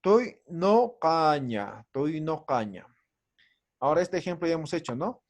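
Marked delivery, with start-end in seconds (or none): 0.0-1.9 "toy no caña" very slow, stretched open o before the back k; slow model pronunciation. Shown as a demonstration. Teacher showing U before Q as o, "toy no caña" drawn out. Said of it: "Esta U está antes de la Q". 1.9-2.8 "toy no caña" joined up, open o, falling softer; model pronunciation. Shown as a demonstration. Teacher repeating the word for students, "toy no caña" joined and falling. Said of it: "Esta U está antes de la Q".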